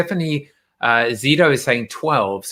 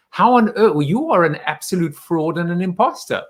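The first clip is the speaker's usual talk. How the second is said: higher, incredulous mock scolding; mock outrage; 5 semitones higher than usual. Host scolds guest over never seeing Bond, mock outrage. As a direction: act scandalised and accuse them in jest.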